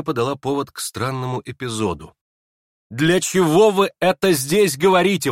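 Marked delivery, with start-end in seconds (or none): 2.9-5.3 high, loud indignant cry; outcry. Acted. Aglaya to the prince, crying out indignantly. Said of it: "вдруг вскричала Аглая".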